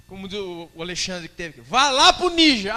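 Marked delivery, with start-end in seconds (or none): 1.7-2.8 slow, loud and high order; loud command. Acted. Jesus sending a follower to Niger, loud and slow. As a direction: send him off with a big booming order.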